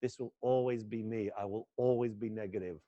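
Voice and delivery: low, resigned self-talk; resigned inner decision. Shown as a demonstration. Son alone at the mirror deciding he'll suffer, low and resigned. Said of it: "And you decide".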